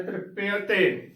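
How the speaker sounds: ਤ੍ਰਿਪਯ ਤੇ as "trip-pe-a-te"; ਤ੍ਰਿਪਯ ਤੇ with every vowel sounded; shown pronunciation. Shown as a demonstration. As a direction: open the half y in ਤ੍ਰਿਪਯ ਤੇ to e-a. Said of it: "ਇਸ ਦਾ ਉਚਾਰਨ ਕਰਨਾ ਹੈ".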